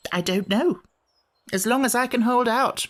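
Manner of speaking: high, grumpy creature voice; a cross little sand-fairy; Samiad voice. Acted. Samiad character voice.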